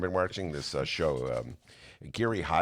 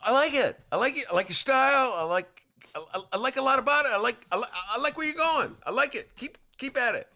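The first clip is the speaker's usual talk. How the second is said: high, bouncy judge praise; Randy Jackson voice; 11 semitones higher than usual. Retold or imitated. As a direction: gush like a pop judge. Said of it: "I'm gonna do Randy".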